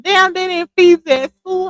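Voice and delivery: high, loud teasing disbelief; mock shock. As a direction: act amazed they didn't feed her. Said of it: "I said".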